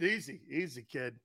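mock-soothing movie line; soft calming. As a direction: settle the kid down gently. Movie quote calming kid.

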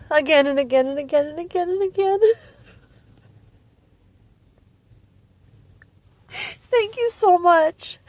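high voice dissolving into happy tears; overcome, crying happily; tearful joy. Real, not acted. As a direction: choke up with gratitude, half laughing. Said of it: "I can't stop crying".

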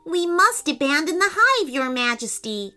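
high, urgent plea; pressing bee character; urging. A narrator's reading. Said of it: "urged Soft Nectar".

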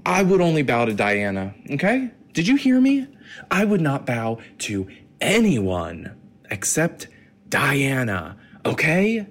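hammed-up indignant British accent; mock British outrage, swooping high; over-the-top Brit, pitch leaping on questions. Shown as a demonstration. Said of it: "the way you do British".

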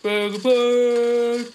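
loud, high, slow trader's bellow; hoarse cockney street cry. Shown as a demonstration. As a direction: cry it out like a rag and bone man. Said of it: "it's like this".

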